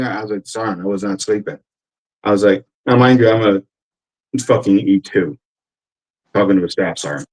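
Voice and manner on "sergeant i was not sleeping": meek. Retold or imitated. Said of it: "I wasn't being combative".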